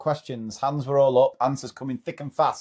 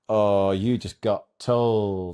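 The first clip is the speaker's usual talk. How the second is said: class taunt; 3 semitones lower, much slower than usual. Retold or imitated. Whole class taunting teacher.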